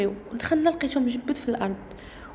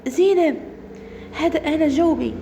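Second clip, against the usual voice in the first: raised voice, imitating a distant caller; calling from afar; 3 semitones higher than usual. Saeed calls Zineb from afar, raised calling voice. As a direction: call out the name to get an answer. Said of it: "سمعت واحد الصوت كيناديني من بعيد".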